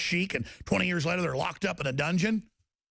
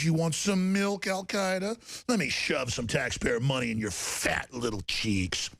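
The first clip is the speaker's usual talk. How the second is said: slow, lower, coaxing mock Obama; mock Obama nursing; 3 semitones lower than usual. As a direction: croon it like offering a baby milk. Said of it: "opens his shirt up and goes".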